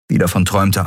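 ordinary delivery

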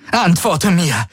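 höher, fordernder Ausbruch; wütend gerufen. A narrator's reading. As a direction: brich die Ruhe, fordere Antwort. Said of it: "Alle Ruhe war vergessen". (Ylana verliert die Fassung gegenüber Garlin)

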